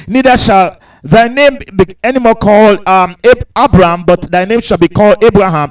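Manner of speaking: lifted pulpit reading voice; scripture reading. Acted. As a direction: proclaim the verses to the congregation. Rereads the verses.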